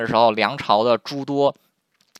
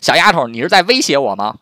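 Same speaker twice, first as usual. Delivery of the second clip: put-on louder, indignant challenge to a cheeky girl; mock angry; 3 semitones higher, 6 dB louder than usual. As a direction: retell an offended official's raised-voice demand. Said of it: "冯荣一生气就说". (佯装生气地大声质问)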